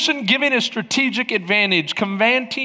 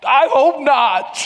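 slow, drawn-out mock dread; 3 semitones higher, 3 dB louder, slower than usual. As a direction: drag it out like a reluctant dad. Acted dread at friend's guess.

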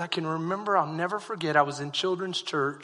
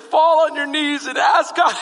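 shouted command, high and loud; 8 semitones higher, 8 dB louder than usual. Retold or imitated. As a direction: bark it like a preacher calling kids forward. Preacher retelling the pastor's command.

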